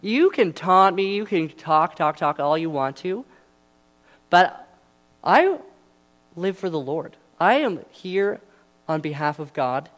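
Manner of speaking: bold David. Retold or imitated. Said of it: "David said".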